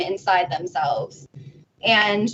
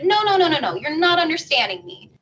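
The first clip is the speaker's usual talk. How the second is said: frantic protest; 5 semitones higher, faster than usual. Retold or imitated. Steven insists to yellow, frantic pleading protest. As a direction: insist he's not being understood.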